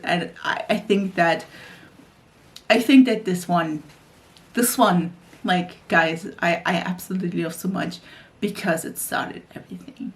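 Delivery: real tears rising, words fading to breath; getting emotional. Real, not acted. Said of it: "you can tell I'm getting emotional".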